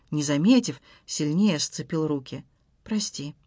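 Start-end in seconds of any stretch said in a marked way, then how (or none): 2.8-3.4 much softer apology; almost whisper the sorry; quiet apology. Acted. Husband apologizes to wife, very softly. Apology after hurting her.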